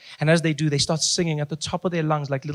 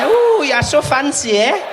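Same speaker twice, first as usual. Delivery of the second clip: mock impressed; 8 semitones higher, 4 dB louder, slower than usual.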